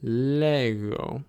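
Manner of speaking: lego with a throaty gamma g; model pronunciation. Shown as a demonstration. Teacher showing the tough gamma in lego. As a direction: lean into the rough g in lego. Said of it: "you can try it".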